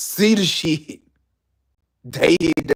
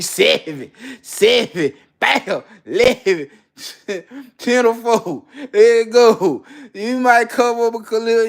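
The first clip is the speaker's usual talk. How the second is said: dice-game hype; 8 semitones higher than usual. Acted. Acting the gambler's hot streak, high excited calls. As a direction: call the rolls like you're on a hot streak.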